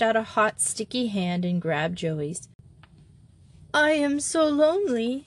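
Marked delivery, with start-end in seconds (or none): 3.7-5.2 put-on lonely girl's high tearful voice; sobbing. A narrator's reading. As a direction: sob it out, homesick. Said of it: "she sobbed".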